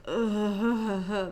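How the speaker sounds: high, loud sobbing groan; acted-out weepy "ugh"; mock crying. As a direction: imitate a miserable tearful moan. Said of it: "tears leaking out and being like".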